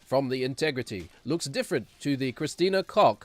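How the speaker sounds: slow nerdy transatlantic drawl; lightly imitating the transatlantic voiceover; transatlantic accent. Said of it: "that weird, like, transatlantic accent guy".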